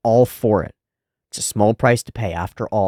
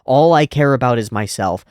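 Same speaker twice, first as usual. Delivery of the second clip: defiant agreement; 5 dB louder than usual. Retold or imitated. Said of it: "And he goes".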